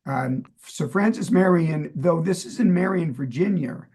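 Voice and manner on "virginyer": Virginia with a New York "-er" ending; New York accent. Real, not acted. Host slips over a place name, New York accent. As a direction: end Virginia on a New Yorker's r, like "Virgin-yer". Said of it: "That's the New Yorker in me".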